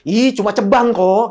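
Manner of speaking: slow pouty brush-off; whiny dismissive Novi. Retold or imitated. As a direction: brush it off with a pout. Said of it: "Novi kan harus gitu".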